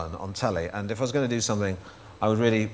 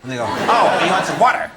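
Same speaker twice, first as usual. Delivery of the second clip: put-on American accent; 6 semitones higher, 6 dB louder, slower than usual. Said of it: "and you go".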